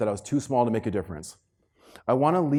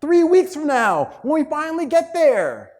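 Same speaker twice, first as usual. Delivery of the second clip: building up; 14 semitones higher, 6 dB louder than usual. Acted. Building to punchline.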